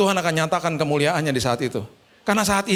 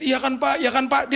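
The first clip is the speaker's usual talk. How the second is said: high, tearful check for agreement; imitated crying; 5 semitones higher than usual. Driver keeps turning to his passenger, mock tearful. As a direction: seek reassurance in a mock weepy voice. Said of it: "Dia noleh-noleh ke belakang sambil nangis".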